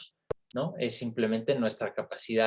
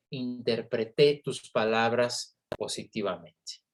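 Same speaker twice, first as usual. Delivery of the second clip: interpreté, stress on the final TÉ; whole sentence with interpreté ending on TÉ; stress on last syllable. Shown as a demonstration. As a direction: say interpreté as in-ter-pre-TÉ, past tense. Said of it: "cambiar a primera persona y decir".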